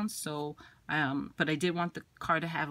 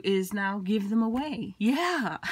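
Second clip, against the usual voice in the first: laughing; 2 semitones higher than usual. Real, not acted. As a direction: laugh it out, pleased with herself. Giggling about giveaway.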